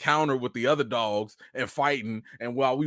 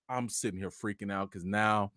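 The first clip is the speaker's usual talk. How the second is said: softer whispered aside; 4 semitones lower, 10 dB quieter than usual. Real, not acted. Whispering while freaking out outside. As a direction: whisper it, anxious.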